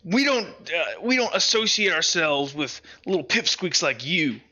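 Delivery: mild dismissive scoff. Acted. Big man rebuffing Dipper's friendly greeting, lightly scoffing. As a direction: look down on them, lightly scornful. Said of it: "like, scoffs at this and goes".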